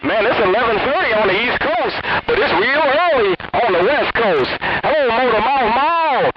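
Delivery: excited. Real, not acted. Excited greeting over CB radio.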